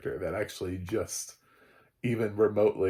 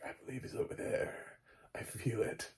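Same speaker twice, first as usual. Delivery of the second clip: mock mystic whisper; 10 dB quieter than usual. Michonne voiced mysteriously in retelling.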